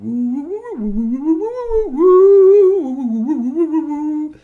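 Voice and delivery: very high, loud, slow woo woo alien call; sing-song alien hooting, way up high; alien chatter. Acted. Alien space creature thanking in its tongue, very high and loud. Alien speaks its own language.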